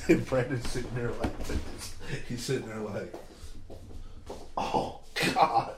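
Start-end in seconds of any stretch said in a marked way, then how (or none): 4.6-5.7 breathy whispered groan under his breath; muttered groan. Retold or imitated. Teammate at bat, whispered groan of dread.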